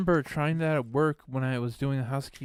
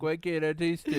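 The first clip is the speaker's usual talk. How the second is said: put-on depressed teenage voice; 4 semitones higher than usual. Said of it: "My depressed teenage voice".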